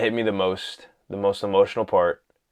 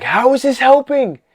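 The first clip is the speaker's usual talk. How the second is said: very high, louder mock Toby voice; imitating Toby; 8 dB louder than usual. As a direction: squeak it out like a baffled hero. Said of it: "he's like".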